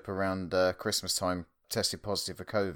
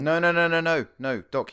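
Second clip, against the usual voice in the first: mock correction; 9 semitones higher, 6 dB louder than usual. Joking correction of the Doctor's name.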